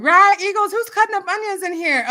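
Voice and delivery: high, loud laughing quote; quoting a friend. Retold or imitated. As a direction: tease about crying, laughing. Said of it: "He said".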